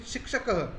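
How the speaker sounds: शिक्षकः said with a breathy "ha" echo after the final a; शिक्षकः with an audible visarga release; visarga demo. Shown as a demonstration. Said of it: "इसको बोलेंगे शिक्षकः".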